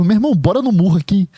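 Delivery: joke-challenge a close friend to a fistfight; brincadeira íntima. Shown as a demonstration. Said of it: "Quando eu falo isso, a forma". (chamado brincalhão, mais agudo, de amigo pra amigo)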